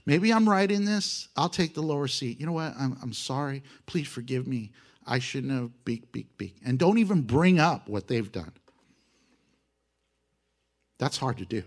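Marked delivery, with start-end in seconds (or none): 0.0-6.6 humble apology. Shown as a demonstration. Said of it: "kinda good to go".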